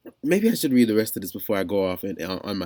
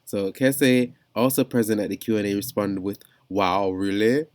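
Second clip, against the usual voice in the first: amateur attempt at a British accent; mock British article reading; bad British accent. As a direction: read it in a shaky-at-best British accent. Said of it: "getting read in a British accent".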